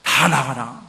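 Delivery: loud, low commanding shout; acted-out yell of command; retold shout. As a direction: order everyone out in a big low voice. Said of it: "소리를 질렀어요".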